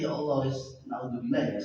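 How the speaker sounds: normal talking voice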